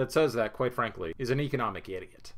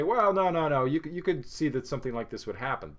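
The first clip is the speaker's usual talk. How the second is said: mock know-it-all objection; 4 semitones higher than usual. Mimicking a know-it-all who insists he saw it coming. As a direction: jump in to contradict, then hurry through the point. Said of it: "And ones can say".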